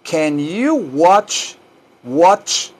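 WATCH ending in a crisp "tch"; careful "watch", rising, for learners; contrasting pronunciation. Shown as a demonstration. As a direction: stress "watch" slowly, closing on "ch". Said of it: "no wash".

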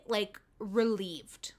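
breathy whispered relief, slowly; relieved whisper. Retold or imitated. Telling viewers how the scene felt, in a slow relieved whisper. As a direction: let it out in a hushed, slow whisper.

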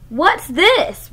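storybook roar, understated; mock roar. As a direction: roar it out like a grumpy dinosaur. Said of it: "roared Bella".

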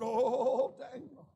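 a broken plea that fades at the end; king crying out in anguish to Daniel; lamentable cry. Retold or imitated. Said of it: "and with a lamentable voice".

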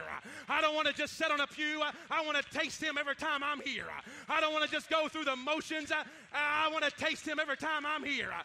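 loud, shouting preacher building the crowd up; preaching at full force. Acted. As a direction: preach it hard, calling out to the church.

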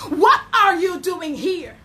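a lightly voiced God asking gently; a hint of God's voice, searching; voice of God questioning. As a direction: ask it as a caring God. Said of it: "The question that God asked Elijah".

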